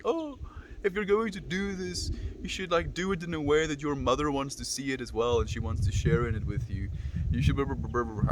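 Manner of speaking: high, soft mock-distraught mom voice; distraught mother. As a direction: imitate an upset mother, starting high and sinking as it trails into blah-blah. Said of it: "like, distraught".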